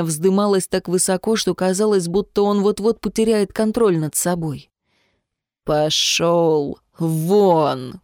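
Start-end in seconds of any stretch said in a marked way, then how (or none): 5.6-8.0 very slow, strained, squeezed out; through gritted teeth. A narrator's reading. Aliev tells Vitya to get out, very slow words through gritted teeth. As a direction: spit each word through clenched teeth. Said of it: "процедил сквозь зубы Алиев".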